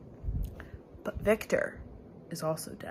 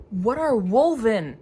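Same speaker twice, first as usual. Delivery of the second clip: slow, louder puzzled question; drawn-out baffled ask; odd sing-song question; 5 dB louder than usual. Real, not acted. Reading alone, a strange loud drawn-out question. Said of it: "why did I say it like that".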